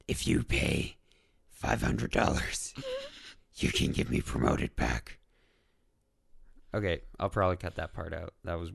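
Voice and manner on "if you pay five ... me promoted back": mock sales pitch. Joking about being demoted.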